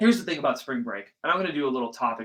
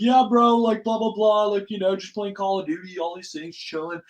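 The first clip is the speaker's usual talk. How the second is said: loud start, easing off; casual bro voice; 6 semitones higher, 3 dB louder than usual. Acted. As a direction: imitate chatting with a buddy. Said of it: "we talk to our friends".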